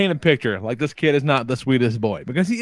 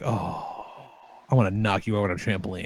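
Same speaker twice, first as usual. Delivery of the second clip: laughing low mutter; 7 semitones lower, 9 dB quieter than usual. Retold or imitated. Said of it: "and I'm like".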